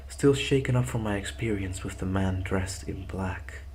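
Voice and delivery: steady horror story reading; story narration. A narrator's reading. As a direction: read it like a creepy tale. Story narration before plain outro.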